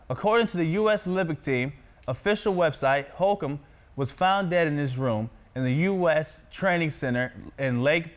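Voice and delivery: projected, evenly paced news anchor read. Shown as a demonstration. Practises reading news aloud.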